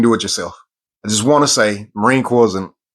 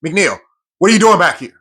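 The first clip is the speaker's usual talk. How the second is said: drill instructor yell; 5 semitones higher than usual. Retold or imitated. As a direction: call him out from the back of the march. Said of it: "comes back to the back and says".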